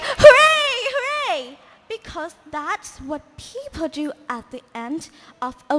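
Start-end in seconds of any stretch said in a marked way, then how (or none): 0.0-1.6 higher, louder cheer. Acted. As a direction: cheer it out joyfully. Everyone cheered.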